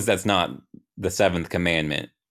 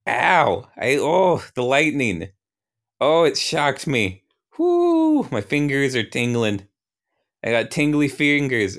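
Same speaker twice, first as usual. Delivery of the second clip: hammed-up yelping, easing into high complaint; pained yell; 7 semitones higher than usual. God zapped by his own lightning, hammed-up pained yelling. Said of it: "I yell out".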